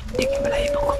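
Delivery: hushed, breathy aside; very soft, voiceless confiding; spooked whisper. Real, not acted. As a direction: whisper it as your hair stands on end.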